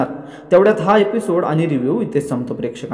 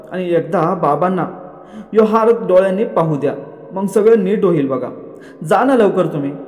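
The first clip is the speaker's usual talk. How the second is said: lightly acted pleading, raised in pitch; mild retold tearful appeal; slightly tearful; 5 semitones higher than usual. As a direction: plead with a touch of tears. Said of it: "थोडं रडक्या आवाजात म्हणते".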